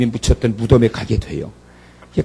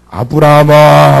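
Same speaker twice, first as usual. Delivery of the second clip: calling out; 8 dB louder, slower than usual. Acted. God calls Abraham.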